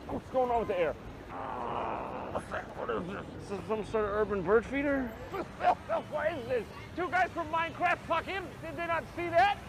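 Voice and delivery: high, loud, choking city dweller; loud, high mock-disgusted walker; hammed-up New Yorker on a stroll. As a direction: gasp at the polluted air. Acts a character on a stroll.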